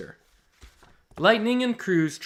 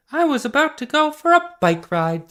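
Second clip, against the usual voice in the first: voicing Callie; 10 semitones higher, 5 dB louder than usual. Callie's voiced line.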